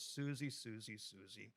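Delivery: low, soft, fading condescension; mock disappointed teacher. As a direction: imitate a smug teacher tutting at a child, voice sinking away. Teacher shakes head, smirking at pupil.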